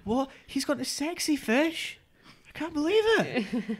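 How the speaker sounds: very high, drawn-out Scottish disbelief; Scottish accent. Retold or imitated. Friend imitates a friend's shock, Scottish accent. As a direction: squeal it slowly in mock Scottish amazement. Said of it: "let me give it a go".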